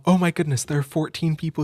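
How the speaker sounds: loud, thrilled burst of delight; excited. Real, not acted. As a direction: gasp it out, overjoyed. Sees fourteen viewers arrive.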